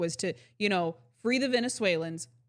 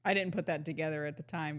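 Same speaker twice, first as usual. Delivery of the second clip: normal talking voice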